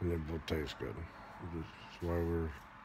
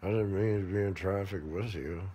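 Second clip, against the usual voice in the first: sarcastic; 2 semitones higher, 7 dB louder than usual. Retold or imitated.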